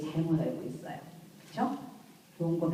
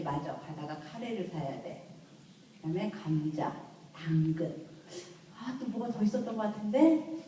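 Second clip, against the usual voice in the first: thinking aloud to herself. Retold or imitated. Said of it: "네 시부터".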